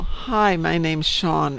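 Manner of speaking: slow mock Indian accent, slightly overdone; lightly imitated Indian call-centre accent; thick Indian accent. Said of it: "in a very thick Indian accent".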